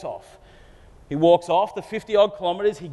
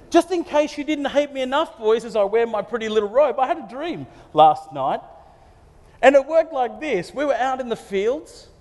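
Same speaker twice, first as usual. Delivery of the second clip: higher, taunting voice of a cocky younger brother; smug dreamer; 5 semitones higher than usual. Retold or imitated. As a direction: rub the dream in their faces.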